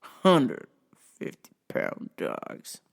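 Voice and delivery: slow, halting redneck drawl; redneck customer. Retold or imitated. Drunk redneck customer asking the clerk for Benadryl, slow drawl. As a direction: drag it out like a dazed redneck. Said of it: "dare is a rednecky type customer".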